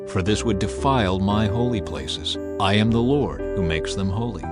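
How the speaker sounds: usual speaking voice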